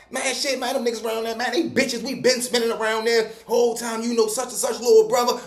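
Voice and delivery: a hint of a bragging poser; mocking a braggart. The new cellmate boasting to the tier, lightly mimicked cocky bragging. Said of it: "So he going around".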